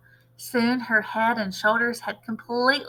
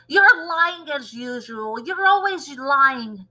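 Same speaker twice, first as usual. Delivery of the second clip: slow, high crone accusation; yelling accusation; 4 semitones higher, 4 dB louder, slower than usual. Acted. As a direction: drag the accusation out scornfully. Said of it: "Grandma yelled".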